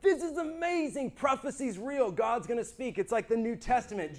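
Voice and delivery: bubbling with excitement; excited inner voice. Retold or imitated. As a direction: gush like an excited kid. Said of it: "one part excited".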